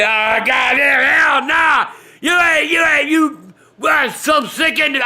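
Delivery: high yelling outburst; outraged shout. Retold or imitated. Son yelling at the prankster over burning bag, outraged shout. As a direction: blow up at whoever did it.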